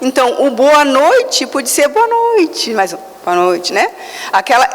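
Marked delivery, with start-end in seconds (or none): 0.5-2.7 friendly, higher-pitched good evening; amigável. Shown as a demonstration. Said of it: "se eu estou amigável". 3.2-3.7 cold, low-pitched good evening; frio. Shown as a demonstration. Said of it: "a mesma palavra com diversas entonações".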